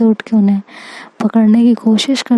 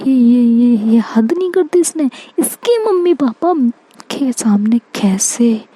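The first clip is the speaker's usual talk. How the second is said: flustered panic; 3 semitones higher than usual. Acted. Aksh panicking about confessing love, in flustered high sputters. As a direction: pitch jumps much higher, then a hushed question.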